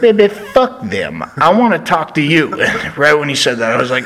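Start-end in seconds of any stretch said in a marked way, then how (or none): 0.0-2.5 Dusty Rhodes impression. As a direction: brush off the others in a hammed-up voice. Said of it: "He was like".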